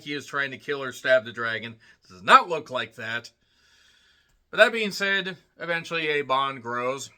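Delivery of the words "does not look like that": "not" punched louder; stress on not. Real, not acted. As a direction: hit the word "not" hard. Emphatic repeat of negation.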